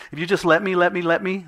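put-on high, begging kid voice; pleading teenager. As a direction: beg like a teen wanting permission. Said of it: "that type of pleading".

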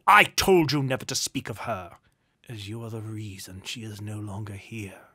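loud outburst dropping to a low, cold reproach; angry rebuke. A narrator's reading. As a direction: cut in sharply, then sink into bitter blame. Duke cuts off nephew angrily.

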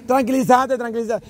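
half-hearted retold shouting; mock crowd yell. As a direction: imitate the crowd urging someone to calm down. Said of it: "Y el montón gritando".

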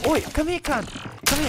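mock Aussie. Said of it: "speak in random accents now".

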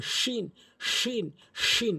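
hushing sh of শিন from mid-tongue at the palate; drilled sheen. Shown as a demonstration. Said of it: "এভাবে উচ্চারণ করার চেষ্টা করবেন".

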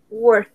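WORKED ending in a T; ED of WORKED pronounced as T; final T sound. Shown as a demonstration. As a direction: say WORKED as one syllable, "workt". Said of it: "es como una T al final".

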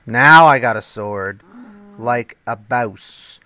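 loud excited boast. Real, not acted. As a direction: announce the sword proudly. Louder excited crafting.

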